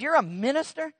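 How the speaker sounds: the woman floored to learn he's a minister; astonished. Retold or imitated. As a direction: hit it with wide-eyed disbelief. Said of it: "She said".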